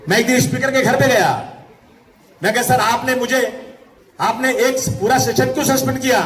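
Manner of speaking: high-pitched, sustained political declamation; rally oratory. Real, not acted. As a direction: proclaim it to the whole crowd. (ऊंची आवाज़ में जोशीला भाषण)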